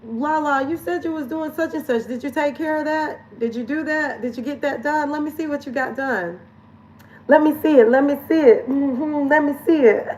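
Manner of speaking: lightly voiced nagging friend, high; a hint of a pushy friend demanding proof; bossy friend. Capricorn friends checking on Lala, lightly voiced and insistent. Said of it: "my Capricorns and my Taurus in my life that say".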